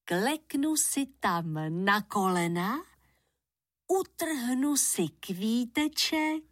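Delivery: put-on slow, measured children's rhyme; nursery rhyme. Shown as a demonstration. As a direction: recite it slowly, line by line, for children. Rhyme repeated slowly for children.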